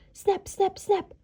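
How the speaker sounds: high, bright snapping bites; snapping jaws. A narrator's reading. Wolf lunging at the doctor, high snapping. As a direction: snap it out like biting jaws.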